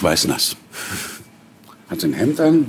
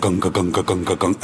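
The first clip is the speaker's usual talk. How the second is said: imitated heartbeat. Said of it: "mein Puls hörte ich im Resonanzraum".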